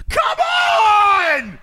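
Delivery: very high, loud, crying-out yell; anguished shout. Real, not acted. Streamer cries out at the game after another failed pull, anguished. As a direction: wail at the game in despair. Still no drop after spending.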